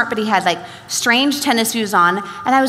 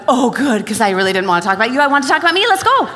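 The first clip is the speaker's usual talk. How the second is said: eager relief; 3 dB louder, faster than usual. Retold or imitated. Relieved talker voiced eagerly.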